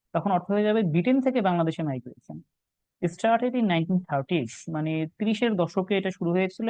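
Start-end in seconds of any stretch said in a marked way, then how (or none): 3.0-4.5 slow reading aloud. Shown as a demonstration. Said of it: "reading question text".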